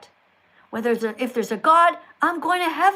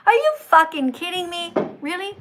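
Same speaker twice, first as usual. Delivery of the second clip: louder, indignant disbelief; incredulous outburst; 3 semitones higher, 5 dB louder than usual. Real, not acted. Streamer reacting to a viewer's Judgment Day warning, incredulous. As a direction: blurt it out, appalled and loud.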